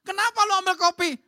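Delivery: high, loud mock-alarmed question; startled husband asking. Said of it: "suaminya tanya".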